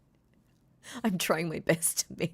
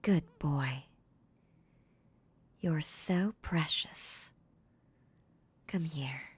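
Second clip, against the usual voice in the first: doting mistress; 4 dB louder, much slower than usual. Acted. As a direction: coo over a pet. Mistress praising her puppy.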